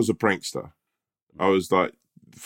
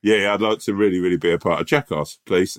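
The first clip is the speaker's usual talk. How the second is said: jolly posh schoolboy. Pretend. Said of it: "sound like a public schoolboy".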